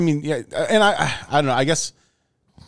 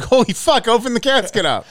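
startled; 10 semitones higher than usual. Retold or imitated. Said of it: "You're like".

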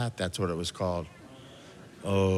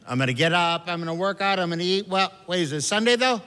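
eager dieter; 7 semitones higher, 4 dB louder than usual. Retold or imitated. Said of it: "It's just the opposite".

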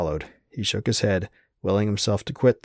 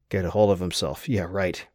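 usual speaking voice

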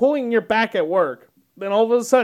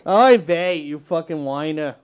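put-on Yiddish accent; 4 semitones lower than usual. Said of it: "I just sound like a stereotypical Jew".

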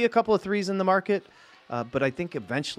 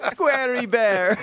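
mock Russian accent; 6 semitones higher, 4 dB louder, much slower than usual. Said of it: "If it's said in a Russian accent".

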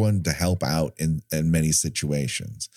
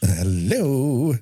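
high, drawn-out mock hello; exaggerated peeved "hello"; annoyed; 7 semitones higher than usual. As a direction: echo an irritated call, pitched up. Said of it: "now she just sounds annoyed".

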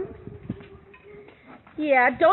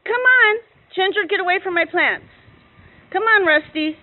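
calling out; 3 dB louder than usual. Real, not acted. Calling cows out of yard.

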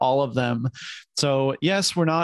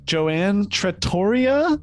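put-on Italian accent; 2 semitones higher, slower than usual. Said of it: "my Italian accent".

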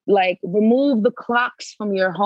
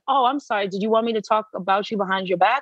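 mock apology; 3 semitones higher, faster than usual. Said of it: "I said".

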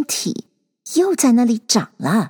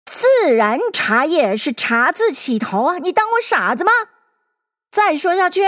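stern; 6 semitones higher than usual. A narrator's reading. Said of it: "那皇帝厉声的道".

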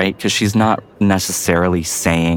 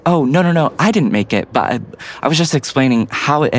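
defensive; 5 semitones higher than usual. Retold or imitated. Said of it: "get a little defensive".

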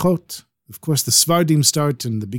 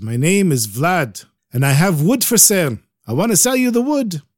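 put-on Ukrainian accent; 5 semitones higher than usual. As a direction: sell wood in a Ukrainian accent. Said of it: "He speaks with a real Ukrainian accent".

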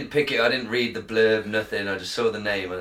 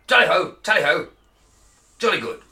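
much higher, louder hearty upper-class toff; Boris Johnson voice; 8 semitones higher, 7 dB louder than usual. Acted. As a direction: bellow it like a jolly country squire. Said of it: "Boris is at the helm".

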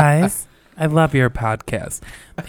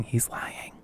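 whispering; 14 dB quieter than usual. Acted. Whispered aside while reading.

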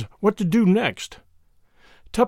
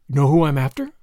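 put-on a light American detective accent; genial American accent; 3 semitones lower, 3 dB louder than usual. A narrator's reading. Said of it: "she inquired genially".

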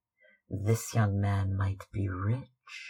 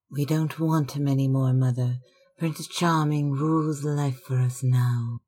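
higher, louder, quick and bright; girl brushing off her mother's worries; buoyant; 4 semitones higher, 4 dB louder than usual. Acted. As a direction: rush it out in joy. Girl happily defies mother.

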